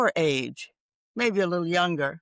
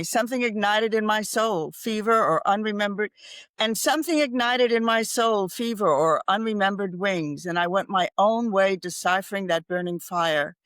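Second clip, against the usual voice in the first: poem recital. Acted.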